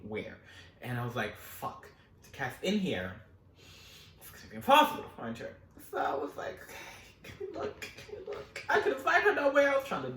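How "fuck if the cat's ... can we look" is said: hushed search. Retold or imitated. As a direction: keep it hushed not to alarm mom. Searching without alarming mom.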